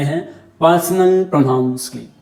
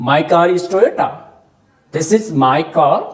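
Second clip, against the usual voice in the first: slow examples; much slower than usual. Shown as a demonstration. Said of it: "मैंने ऐसा भी कहा".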